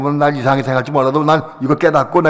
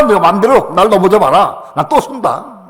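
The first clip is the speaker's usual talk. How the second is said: mock defiance; 4 semitones higher, 4 dB louder than usual. Voicing devils then defiance.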